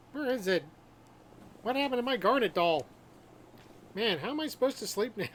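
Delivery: distressed game character. Acted. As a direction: fret over a lost treasure. Voicing a character missing his doll.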